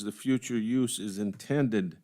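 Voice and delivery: slow, deliberate reading landing on "intended"; stress on INTENDED. Real, not acted. Commissioner reading the project overview aloud, stress on "intended". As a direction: read it out slowly, weighting "intended", then pause. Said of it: "I stress the word intended".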